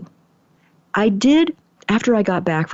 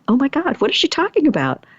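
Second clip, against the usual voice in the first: higher-pitched bewildered worry; mildly alarmed; 6 semitones higher than usual. Retold or imitated. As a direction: retell a flustered inner reaction. Retold worry over the text.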